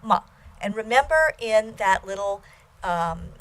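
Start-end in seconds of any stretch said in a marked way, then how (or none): 0.0-0.2 MA short, without emphasis; neutral tone. Shown as a demonstration. Teacher reviewing all tones, unemphasised neutral MA. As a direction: say MA briefly, no tone contour. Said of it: "neutral tone".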